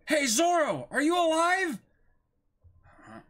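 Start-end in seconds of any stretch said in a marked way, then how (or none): 0.1-1.8 higher call to the dog; a higher, louder call checking on the dog. Acted. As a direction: shout over to the dog. Calling to the dog.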